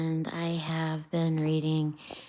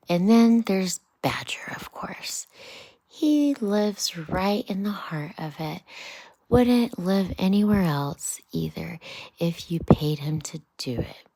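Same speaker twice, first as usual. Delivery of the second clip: a hint of a fussy, worldly Rat, louder bursts; storybook Rat, half whispered, half declaimed; Rat, lightly voiced; 2 semitones higher, 7 dB louder than usual. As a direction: Rat grumbling about the crowded bank. Rat on Badger.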